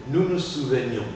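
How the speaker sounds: souvenions as "sou-ve-nions"; mute E pronounced. Shown as a demonstration. Teacher models souvenions for student to repeat, E articulated. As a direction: keep the E before -nions in souvenions. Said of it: "je dois la prononcer".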